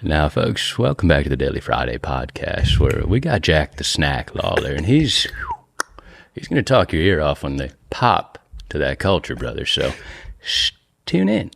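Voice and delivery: Matthew McConaughey impression. Shown as a demonstration. Host asks for one, he does McConaughey lightly. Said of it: "Give us one right now".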